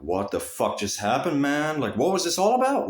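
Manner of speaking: imitating a baffled onlooker, pitch climbing; bewildered. Friend who saw the whole interaction, bewildered. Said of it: "total confusion".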